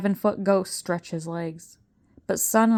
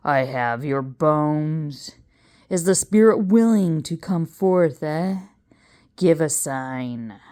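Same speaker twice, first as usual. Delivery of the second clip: seance showman; 3 semitones lower, 3 dB louder than usual. Acted. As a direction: coax the spirit out. Seance summons.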